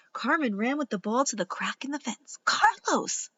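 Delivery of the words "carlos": high-pitched call to someone. A narrator's reading. Girl at the fence summons her brother, calling out. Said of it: "she called".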